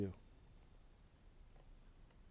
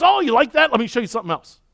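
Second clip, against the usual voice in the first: delighted grandpa; 9 semitones higher, 9 dB louder, faster than usual. Retold or imitated.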